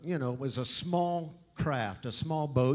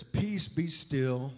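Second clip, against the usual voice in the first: slow, calm stilling; calm command; much slower than usual. Acted. Jesus calming the sea, slow calm. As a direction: settle the storm slowly. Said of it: "anger and frustration ... and says".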